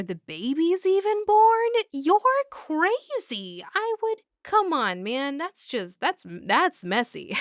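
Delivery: hammed-up innocent act; mock incredulous Michael. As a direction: wave off the very idea he would kill him. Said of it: "he goes".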